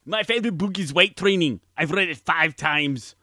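lightly voiced muscleman accent; a hint of the action-star Austrian; Arnold Schwarzenegger impression. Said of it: "Please welcome Arnold".

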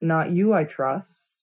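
slow, soft and threatening; menacing lord, barely above a murmur; Roose Bolton voice. Acted. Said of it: "Do your Roos voice".

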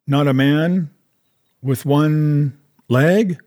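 a gasp of fear, slowing on one leg; castaway fears the one-legged pirate. Acted. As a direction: gasp it out, fearful and slow. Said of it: "he gasped".

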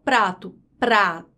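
"prato, prato" with P and R both heard, then split pra, to; both consonants sounded. Shown as a demonstration. Teacher proving both consonants are pronounced, clearly sounded. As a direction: say "prato, prato" low, whole first, then in syllables. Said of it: "eu pronunciei as duas consoantes".

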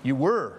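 "were" punched and drawn into a peak; stress on WERE. Shown as a demonstration. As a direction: lean hard on the word "were". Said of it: "emphasize the word were".

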